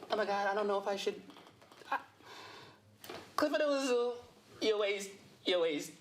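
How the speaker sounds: high-pitched, hammed-up admirer voice with pauses; mock smitten fan. Comedian imitating fans at home messaging him, high mock swooning. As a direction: pine in a put-on high voice. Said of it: "They be home like this".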